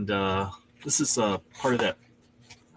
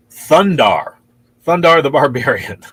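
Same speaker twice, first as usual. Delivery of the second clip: sudden loud recall; excited; 3 semitones higher, 10 dB louder, slower than usual. Real, not acted. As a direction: blurt it out as it comes back.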